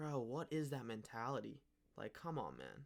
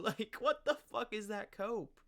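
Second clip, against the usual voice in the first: laughing disbelief; 9 semitones higher, 4 dB louder than usual. Real, not acted.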